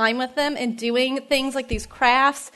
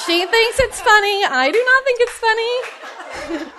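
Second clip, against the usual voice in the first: laughing; 8 semitones higher than usual. Real, not acted. Laughing at daughter's sassy Starbucks antics.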